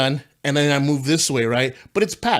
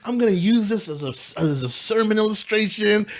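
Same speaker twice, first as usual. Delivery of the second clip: higher-pitched, worked-up retelling; mock-outraged, pitched up; retold exasperation; 5 semitones higher than usual. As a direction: replay losing your mind over it. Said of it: "I'm losing my mind".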